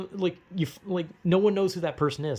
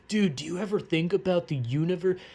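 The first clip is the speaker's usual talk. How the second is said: stoner musing; 4 semitones higher than usual. Retold or imitated. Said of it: "takes a puff, says".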